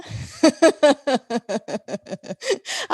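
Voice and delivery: long, high, loud peal of laughter; amused laugh. Real, not acted. Teacher joking about looking ugly, amused laugh. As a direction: burst out laughing at your own joke.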